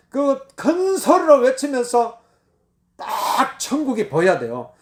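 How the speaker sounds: ordinary delivery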